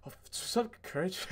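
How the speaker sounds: high, soft squeak breaking into laughter; mock starstruck. Fan answering Courage who walked up, mock starstruck squeak. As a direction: mimic a nervous fan's tiny greeting.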